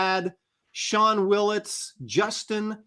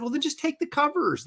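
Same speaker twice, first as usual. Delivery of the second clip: retold reply; 10 semitones higher, 4 dB quieter than usual. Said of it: "I said".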